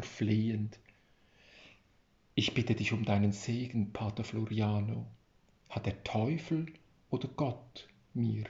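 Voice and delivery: reading a story aloud with care; a storyteller reading his tale to listeners; story narration. A narrator's reading. Author reads his tale aloud, in a measured narrating voice.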